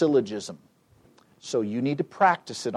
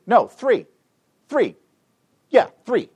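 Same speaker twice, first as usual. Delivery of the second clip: retold self-correction; 10 semitones higher, 5 dB louder than usual. Acting woman conferring with her husband.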